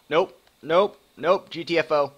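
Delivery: high, loud frightened nopes; panicked nope. Real, not acted. Streamer recoiling from a monster, yelping high nopes. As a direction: back away in real alarm.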